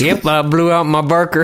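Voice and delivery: lightly voiced old man; a hint of an old man's voice. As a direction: say it as a mild old-man quote. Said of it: "sounds like something an, an old man would say".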